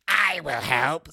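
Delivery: a mock-heavy storybook dad bear; overdone Papa Bear voice. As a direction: ham up the audiobook's Papa Bear, drawn out. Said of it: "and I was like, What is happening?".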